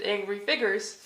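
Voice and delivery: ordinary delivery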